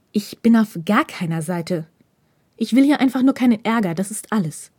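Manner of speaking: scharf gezischt, am Ende tonlos geflüstert; zischend. Acted. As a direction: gereizt zuzischen. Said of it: "zischte Hirakawa ihm zu". (zischend geflüstert)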